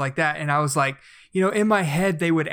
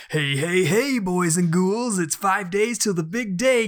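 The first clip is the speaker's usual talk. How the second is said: hammy Halloween radio DJ; cheesy spooky DJ hype; jack o lantern voice; 3 semitones higher than usual. Retold or imitated. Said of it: "I was just like, "I wanna turn on the radio and hear".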